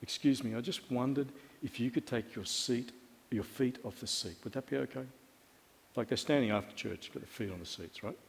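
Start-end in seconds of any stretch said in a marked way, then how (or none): 0.0-5.0 soft, low, overly polite asking; very gentle request. Retold or imitated. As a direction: re-enact a careful, hushed request. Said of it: "I said it just like this".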